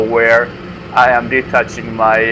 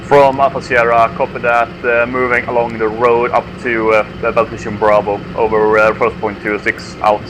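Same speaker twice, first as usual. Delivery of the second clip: crackly military radio. Real, not acted. Squad leader replying over radio.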